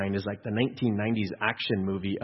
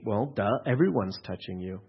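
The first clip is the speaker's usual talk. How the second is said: low, softer aside with mild sarcasm; sarcastic; 3 semitones lower, 5 dB quieter than usual. Acted. Onlooker answering Jesus in the crowd, sarcastic. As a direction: state the obvious dryly.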